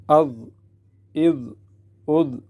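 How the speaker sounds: heavy dh at upper teeth; tongue-tip zaa. Shown as a demonstration. Teacher shows tongue at teeth, heavy closing dh. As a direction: close on a thick dh. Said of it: "دانتوں کے سرے میں".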